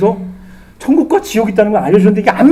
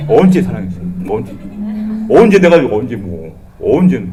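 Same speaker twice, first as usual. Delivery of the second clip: rude demanding; 7 semitones lower than usual. Retold or imitated. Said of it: "딱".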